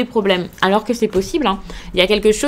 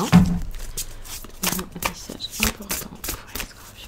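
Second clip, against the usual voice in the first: very soft, slow, under the breath; hushed murmur; 9 dB quieter, much slower than usual. Real, not acted. Card reader asking the deck for a message, hushed murmur. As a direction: murmur it slowly, almost inaudibly. Murmured request while shuffling cards.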